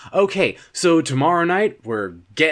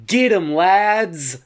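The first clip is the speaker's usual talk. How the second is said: slow, higher rallying call; body rallying troops; 4 semitones higher, slower than usual. Acted. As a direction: order the troops in, drawing it out. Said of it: "Your body looked at my hand and said".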